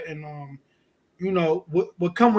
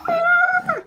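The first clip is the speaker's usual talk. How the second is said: very high-pitched shriek; piercing comic high "ah"; old lady scream; 3 dB louder than usual. Retold or imitated. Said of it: "I was screaming like an old white Jewish lady".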